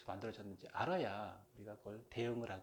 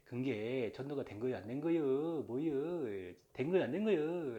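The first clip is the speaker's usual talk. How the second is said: Jeongeup dialect. Retold or imitated. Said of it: "전라도도 전북, 저 정읍".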